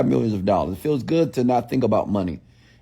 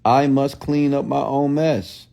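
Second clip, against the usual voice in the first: slow dictation; slower than usual. Shown as a demonstration. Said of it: "Write that down in the comments below".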